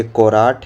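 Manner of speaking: कोराट said as "ko-raat"; wrong spelling read out. Shown as a demonstration. Teacher rejecting wrong options for carrot, reads कोराट as "ko-raat". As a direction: sound out the misspelt कोराट as written. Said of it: "ये सब नहीं होगा".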